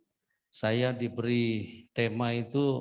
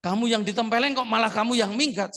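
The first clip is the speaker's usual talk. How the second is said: higher, louder disbelieving question; incredulous retort; 10 semitones higher, 7 dB louder than usual. Retold or imitated. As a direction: throw the question back in disbelief. Retold incredulous reply. (pertanyaan tak percaya yang lebih tinggi dan keras)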